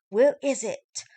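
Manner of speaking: loud, high furious shout; angry shout. Acted. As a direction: shout the demand. Marshall demanding guitar back.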